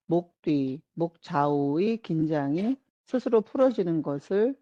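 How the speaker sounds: unhurried relaxation-guide voice, pausing between instructions; guided relaxation. Acted. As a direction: lead them gently through letting go. Guides attention to releasing tension. (차분한 이완 명상 안내)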